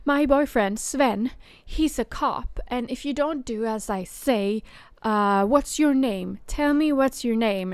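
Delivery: mimicking a caller who threatens with her boyfriend; threatening caller. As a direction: demand it like she owns the cop. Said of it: "she started going on like".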